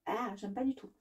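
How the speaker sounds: soft grossed-out groan; quiet real disgust. Real, not acted. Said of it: "c'est dégueulasse".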